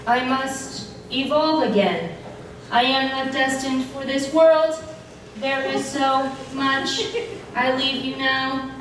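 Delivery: flat monotone robot voice; steady machine-like drone. Acted. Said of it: "You're a giant robot death machine".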